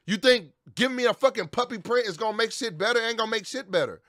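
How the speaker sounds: angry rant. Real, not acted.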